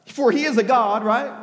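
playfully derisive; mocking. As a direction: feign helpful reasoning to needle them. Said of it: "mocked them, saying".

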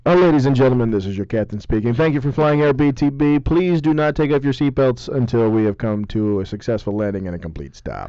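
airline captain addressing passengers; mock pilot speaking over the intercom; pilot announcement. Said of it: "A K A the Captain".

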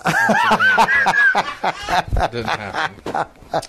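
real laughter breaking into the words; laughing. Real, not acted. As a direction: crack up at your own joke. Joking about story, laughs heard.

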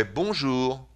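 quick French "Bonjour", short last syllable; French-style bonjour. Shown as a demonstration. Radio host shows listeners how the French say it, brisk "Bonjour". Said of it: "the French people would say".

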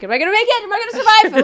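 hammed-up fear of drowning; mock panic. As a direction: cry out as if the tide might take you. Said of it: "And like".

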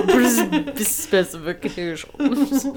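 slow snooty drawl; snobby voice. Pretend. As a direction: say it like a snob. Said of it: "a specification snobby voice".

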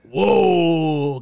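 sudden loud whoa; surprised. Real, not acted. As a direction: caught off guard, blurt it out. Friend drops a shot at fiancée.

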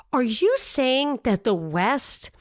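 slow whispered disbelief; mock whisper. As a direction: breathe it out as a stunned question. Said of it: "so the guy says".

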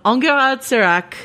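Enguerrand Serac in a hammed-up bad French accent; terrible French accent. Shown as a demonstration. Host naming a character for listeners, mock French accent. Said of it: "my terrible French accent".

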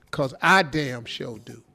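low knowing aside; parenthetical aside. Shown as a demonstration. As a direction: drop the voice low for the added comment. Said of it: "Might as well put in parentheses".

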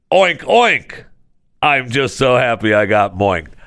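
hammed-up oinking customer; mock happy customer. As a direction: play a pig-happy customer. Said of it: "they're going to guarantee that you say".

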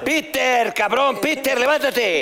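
high strained pleading voice; comic high plea to his own body; high mock plea. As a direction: beg him to get up in a squeaky voice.

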